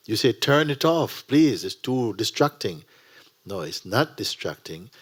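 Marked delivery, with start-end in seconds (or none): 0.3-2.8 higher, loud begging; pleading student. Retold or imitated. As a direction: plead to switch off the wiper. Student begs to stop wipers.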